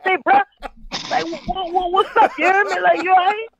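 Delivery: a mock-annoyed call; half-joking impatient check-in; with an attitude. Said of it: "I'ma call you with an attitude".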